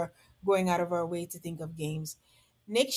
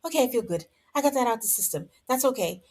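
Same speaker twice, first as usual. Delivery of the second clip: imitating Courtney; 4 semitones higher, faster than usual. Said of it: "she stops and she's like".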